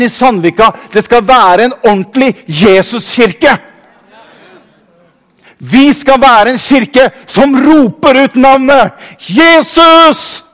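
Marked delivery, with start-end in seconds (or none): 5.6-10.4 rallying call. Real, not acted. Preacher rallying the congregation.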